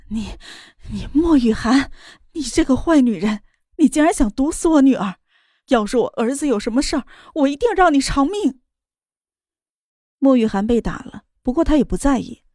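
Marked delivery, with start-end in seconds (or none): 0.1-8.6 trembling, furious accusation; rising rage, voice shaking; shaking with anger. Acted. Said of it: "声音都在发抖". (气得声音发抖)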